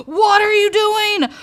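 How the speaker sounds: loud, high, punching what; high loud outburst stressing what; exasperated yell. Real, not acted. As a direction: snap "WHAT are you doing". Yelling at the cat again.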